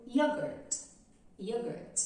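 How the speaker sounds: "yogurt" starting with an ee-like y. Shown as a demonstration. Teacher modelling the y of "yogurt". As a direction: glide in from ee for "yogurt". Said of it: "tem o som de I".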